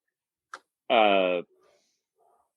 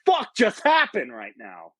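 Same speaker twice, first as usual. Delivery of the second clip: retold scream; 7 semitones higher than usual. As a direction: stretch out a high-pitched panicked yell. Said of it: "I screamed at the top of my lungs".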